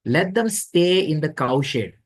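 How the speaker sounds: slow, dismissive sneer; lightly voiced scornful landlord; contemptuous order. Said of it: "was so envious".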